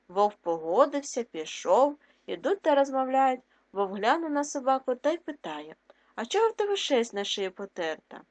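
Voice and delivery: lively fairy tale reading; story read to children. A narrator's reading. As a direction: read the tale to pupils with voices. Reads tale aloud.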